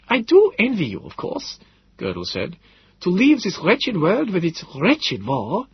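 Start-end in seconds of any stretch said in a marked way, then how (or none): 0.1-1.6 Gödel, resolute. A narrator's reading. Gödel's voice, held. 3.0-5.7 put-on slow, high old man's voice, rueful; Gödel, weary. A narrator's reading. Gödel envying those escaping the war, slow, high and rueful.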